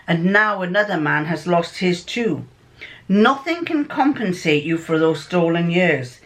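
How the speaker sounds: measured, formal detective pronouncement; Sherlock Holmes. Acted. Holmes addressing a freed prisoner, solemn and formal. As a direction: read it out deliberately, as a detective giving judgement. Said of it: "this is home speaking".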